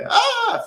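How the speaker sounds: high mock scream, not loud. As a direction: imitate a woman's distant scream. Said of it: "this loud scream".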